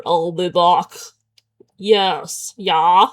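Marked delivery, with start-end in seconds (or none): 0.0-0.9 a lightly voiced terminator catchphrase, a bit lower; barely-there Arnold movie voice; Arnold Schwarzenegger impression. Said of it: "Or Arnold Schwarzenegger".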